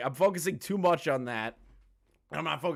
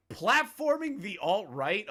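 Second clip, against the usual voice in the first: incredulous echo; 5 semitones higher, slower than usual. Real, not acted.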